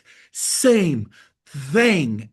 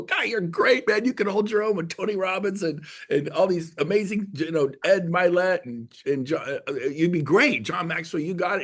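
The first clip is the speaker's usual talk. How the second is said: higher-pitched, enthusiastic compliment; retold gushing praise; 5 semitones higher than usual. Admirer praising a speaker after shaking hands, gushing.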